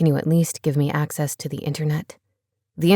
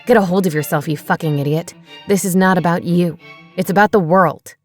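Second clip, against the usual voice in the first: louder angry outburst; lost temper; 2 semitones lower, 4 dB louder than usual. Acted. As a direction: snap at her, furious. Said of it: "He lost his temper".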